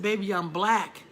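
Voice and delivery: slow, deliberate, loving put-down; unhurried knowing reassurance; slow proud warmth. Retold or imitated. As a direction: tell her gently but with pride. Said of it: "I said".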